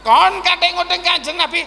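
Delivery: acted fierce indignation; indignant Umar. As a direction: leap up and challenge him angrily. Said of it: "Wah, ngoten ketika Sayyidina Umar".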